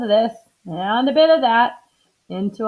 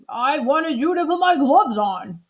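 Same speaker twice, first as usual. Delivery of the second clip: higher, patient doctor; doctor explaining; 5 semitones higher than usual. Acted. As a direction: spell out the request. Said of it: "said the doctor".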